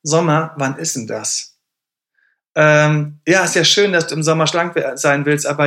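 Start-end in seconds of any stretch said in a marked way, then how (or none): 0.0-1.5 skeptical inner voice. Retold or imitated. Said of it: "Und eine andere Stimme sagt".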